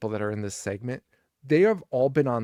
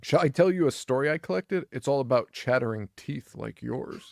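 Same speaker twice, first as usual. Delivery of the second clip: creepy storyteller. Retold or imitated. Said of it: "the way he asks her is".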